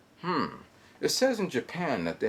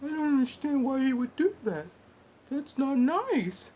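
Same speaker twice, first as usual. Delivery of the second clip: put-on 1 puzzled girl; 14 semitones higher than usual.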